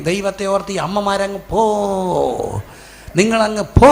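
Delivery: loud, drawn-out final "go"; exasperated teacher plea. Acted. Teacher sending mothers away from the school gate, exasperated.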